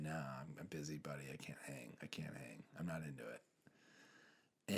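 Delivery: low, hushed mock refusal; quiet brush-off. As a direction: mutter a retold excuse, trailing almost to a whisper. Retold brush-off of a friend.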